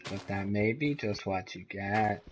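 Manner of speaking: muffled poor audio; through a tube. Real, not acted. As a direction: sounds like talking through a tube. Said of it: "poor audio quality, seductive voice".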